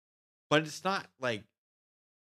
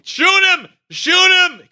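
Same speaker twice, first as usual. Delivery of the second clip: full shout, much higher and louder; yelled order; 20 dB louder, much slower than usual. Retold or imitated. Soldier yelling to shoot the intruder, full shout. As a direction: yell it across the perimeter.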